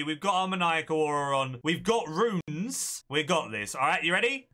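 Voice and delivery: ordinary talk, nothing marked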